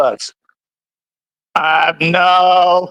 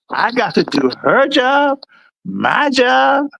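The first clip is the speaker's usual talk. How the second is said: raised pitch, questioning each job; mildly indignant retold disbelief; incredulous protest; 5 semitones higher than usual. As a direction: query it as if absurd. Retelling protest to supervisor.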